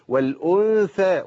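والأنثى slow, clear th as in think; clear thaa. Shown as a demonstration. Teacher repeats the correct word, slow clear th in والأنثى. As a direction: hold the n, then th in والأنثى. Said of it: "لازم أبين الفرق بين الثاء".

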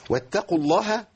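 measured chanted reading; teacher prompts the listener to complete; slow recitation. Shown as a demonstration. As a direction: recite slowly, pausing before the end. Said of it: "إيه؟".

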